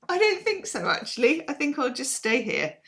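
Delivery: lightly voiced haughty cat; cat's voice. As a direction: voice the cat, a touch snooty. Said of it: "And she's like".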